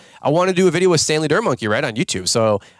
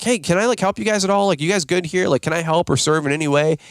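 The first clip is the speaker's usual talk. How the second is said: eager helper; 5 semitones higher than usual. Retold or imitated. Eagerly offering help as volunteer.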